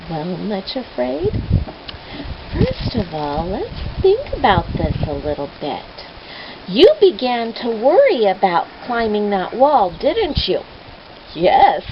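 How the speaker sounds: put-on shepherd gently reasoning with frightened girl; gentle shepherd. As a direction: coax her gently.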